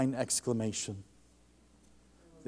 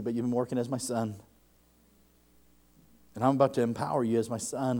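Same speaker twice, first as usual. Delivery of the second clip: gentle voice of the Lord. Retold or imitated. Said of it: "He said".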